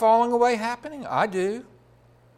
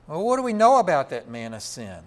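ordinary delivery

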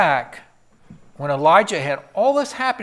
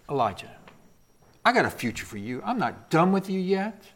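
tender God; 5 dB quieter than usual. Acted. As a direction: speak it gently as a promise.

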